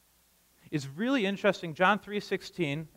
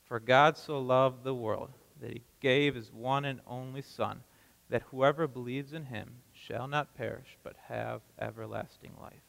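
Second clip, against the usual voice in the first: reciting scripture; 5 semitones lower, 5 dB quieter than usual. Shown as a demonstration. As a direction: recite the verse together, steady and measured. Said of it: "let's say John three sixteen".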